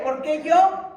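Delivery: lightly mimicked kid's objection, rising at the end; protesting child. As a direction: push back like a child given chores. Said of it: "muchos niños así son".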